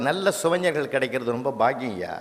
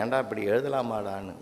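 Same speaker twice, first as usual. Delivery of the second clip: gentle scolding; 6 semitones lower, 8 dB quieter than usual. Retold or imitated. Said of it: "அவனே கூப்பிட்டு நான் கேட்டேன்".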